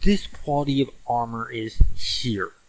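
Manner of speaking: ordinary talk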